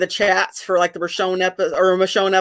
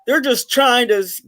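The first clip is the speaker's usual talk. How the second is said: put-on Southern accent; 4 semitones higher than usual. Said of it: "I always do a Southern accent".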